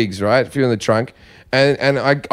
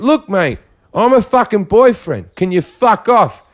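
slow, higher-pitched retold confrontation; firm telling-off; 5 semitones higher, slower than usual. Boyfriend warns off man following girlfriend, slow irritated telling-off. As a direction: spell it out to the pest.

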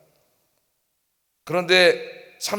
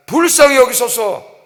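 loud, high, slow plea; acted crying out; 5 semitones higher, 7 dB louder, slower than usual. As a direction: beg aloud over the crowd. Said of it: "더 크게 외치는 거죠".

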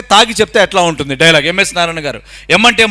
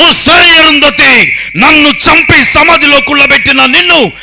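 high, loud, drawn-out vengeful shout; powerful villain roar; 8 semitones higher, 7 dB louder, slower than usual. Acted. Mimic as the villain Arundhati buried, furious loud roar. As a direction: roar the threat at full force, stretching words. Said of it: "మంచి powerful dialogue Arundhati".

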